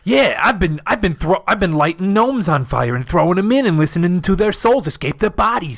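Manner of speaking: a hint of a tough-guy voice; lightly put-on cartoon mobster boasting; cartoon gangster. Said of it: "why do we always sound like cartoon gangsters".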